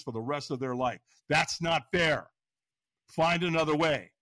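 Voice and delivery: stern inner voice. Retold or imitated. Inner voice scolding about suicide.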